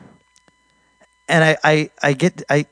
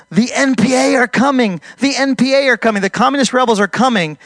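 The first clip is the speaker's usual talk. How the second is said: mock terror; 6 semitones higher than usual. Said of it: "She's in a total terror".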